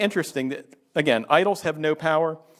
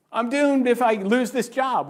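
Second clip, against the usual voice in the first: slow, higher-pitched mock despair; mock alarm; 7 semitones higher, slower than usual. Preacher voicing someone afraid to lose a job, mock alarm. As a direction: draw out the worried thought, pitched up. Voicing an anxious believer's thought.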